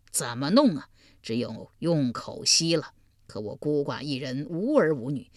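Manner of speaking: lightly voiced old beggar, low and weary; old beggar pleading. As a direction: plead your misery like a poor old man.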